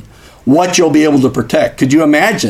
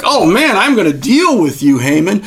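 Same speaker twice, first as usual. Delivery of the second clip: higher, lightly hammed-up royal threat; a hint of an indignant king, voice pitched up; mock angry king; 5 semitones higher than usual. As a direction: play the king promising to deal with him.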